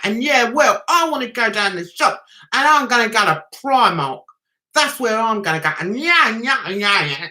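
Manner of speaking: lightly put-on East London accent. Mocking how the Towie crowd talk, East London accent. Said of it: "They talk like East Londoners".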